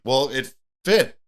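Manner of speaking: slow, put-on character voice; a slow, goofy put-on voice; silly voice. Host reading a complaint aloud in a put-on voice. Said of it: "You're finally doing voices on the fucking podcast".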